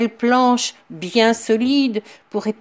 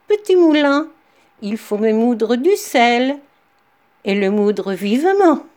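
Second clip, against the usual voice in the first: loud command; 2 semitones higher, 4 dB louder than usual. Acted. Captain commands the stolen mill.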